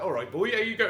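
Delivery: high, loud, garbled regional English patter; wild regional English accent. Acted. Pub owner mimicking England's regional spread, wild English accent. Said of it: "the accent is completely wild".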